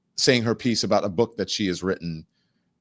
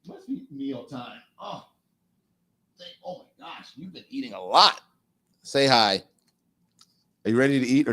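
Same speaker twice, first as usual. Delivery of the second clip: talking to a dog; 5 semitones higher than usual. Real, not acted. Greeting his dog on camera.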